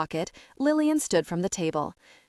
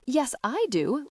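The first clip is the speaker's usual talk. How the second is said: higher, slow indignant protest; 6 semitones higher, slower than usual. A narrator's reading. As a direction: insist you can, drawn out. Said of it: "Lillian protested".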